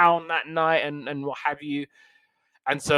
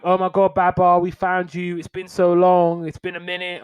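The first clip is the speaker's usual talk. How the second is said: excited reunion; 5 semitones higher, 4 dB louder than usual. Retold or imitated. Celeste and Arthur finding Babar.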